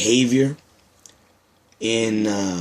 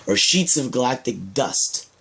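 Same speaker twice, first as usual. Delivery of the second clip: literary reading. Acted. Author reads own artistic story of the Silverbacks aloud, measured literary recital. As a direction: read it like spoken-word prose, pausing between phrases.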